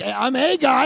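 high, loud mock answer; hammed-up yell back at a stranger; shouted reply.

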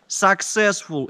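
"successful" drawn out slowly, mocking; sarcastic air quotes. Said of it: "in quotes".

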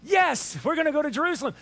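high, loud emphatic yes; mock exasperation. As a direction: answer as if asked far too often. Exasperated Jesus answering clueless disciples.

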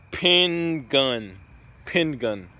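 pin gun said as two words; wrong pronunciation. Shown as a demonstration. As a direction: say penguin as pin gun, stress on pin. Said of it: "Penguin or penguin".

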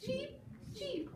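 teacher squeaks the chick's cheeps again. Acted. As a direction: peep like a tiny chick. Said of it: "said the little chick yellow".

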